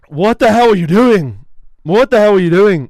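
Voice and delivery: retold shout of disbelief; retold exasperated yell. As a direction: bark it out like a fed-up critic. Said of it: "being like".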